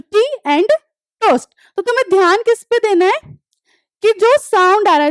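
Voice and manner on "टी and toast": "टी and... toast", with a pause before TOAST; demonstrating T sound. Shown as a demonstration. Teacher points out the T sound, spaced demonstration. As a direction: separate टी AND from TOAST for listening. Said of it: "जैसे ट का sound आ रहा था".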